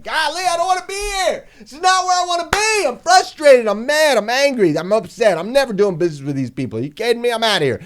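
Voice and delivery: high, loud mock whiny customer; frustrated customer. Annoyed shopper leaving a website, high mock whine. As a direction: squeal it like a fed-up shopper. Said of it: "You're like".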